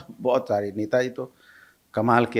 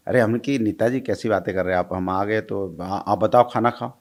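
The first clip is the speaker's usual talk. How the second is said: Netaji's village dialect; 3 semitones lower than usual. Retold or imitated. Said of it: "तो आप उसी में बोलिए ना".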